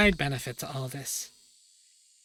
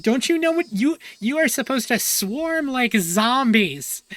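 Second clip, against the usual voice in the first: mock furious Mion; 8 semitones higher, 5 dB louder than usual. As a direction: scream it over the top, higher and louder. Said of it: "she's so pissed".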